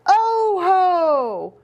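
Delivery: high hollering alien voice; lightly voiced alien holler; Martians hollering. A narrator's reading. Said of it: "the Martians hollered".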